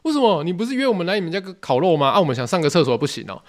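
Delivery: can't believe the refusal; stunned disbelief. Retold or imitated. Refused the toilet, asking the host why, high and incredulous. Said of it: "当下就很傻眼".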